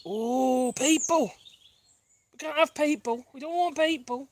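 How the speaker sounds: high-pitched pet talk; mock dismay to dogs. Telling the dogs people are passing, mock dismay. Talking to dogs about passers-by.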